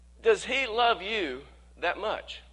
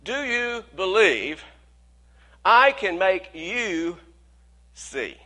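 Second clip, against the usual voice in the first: slow emphatic; slower than usual. Shown as a demonstration. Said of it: "now watch this".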